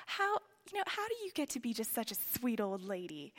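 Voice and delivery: lightly voiced Southern auntie; Southern accent. Auntie asking a dear old lady her secret, Southern accent. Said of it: "in her Southern accent".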